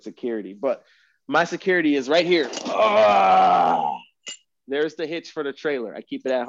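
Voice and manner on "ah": long loud falling groan; loud drawn-out "ahh". Real, not acted. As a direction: let out a big sustained "aah". Showing the heavy trailer hitch.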